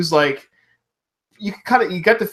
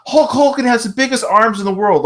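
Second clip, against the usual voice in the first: put-on kid's boast; 7 semitones higher than usual. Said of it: "I remember telling everyone".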